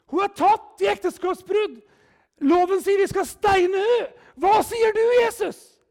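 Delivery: accusing Pharisees. Retold or imitated. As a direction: demand it like a self-righteous accuser. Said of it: "der fariseerne sier". (farisé som anklager Jesus, høyt og anklagende)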